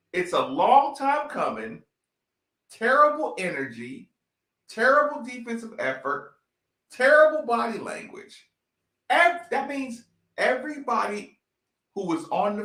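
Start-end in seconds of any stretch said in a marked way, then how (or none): 0.1-8.5 quoting the commentator. Retold or imitated. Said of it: "The commentator said".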